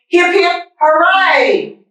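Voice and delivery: high excited hip hip hooray; cheering. Acted. Mateo cheering the farmers, high excited cheer.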